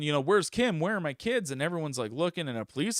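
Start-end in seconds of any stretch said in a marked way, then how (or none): 0.2-1.5 high, mildly raised frantic questions; retold yelling. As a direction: imitate a panicked man calling for family. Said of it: "he starts yelling".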